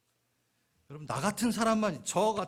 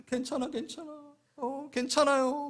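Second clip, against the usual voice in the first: gentle comforting; 10 semitones higher, slower than usual. Acted. Comforting gift consoling waiter.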